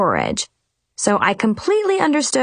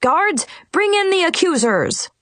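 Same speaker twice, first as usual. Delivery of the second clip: wizard's order; 8 semitones higher than usual. A narrator's reading. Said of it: "the wizard ordered".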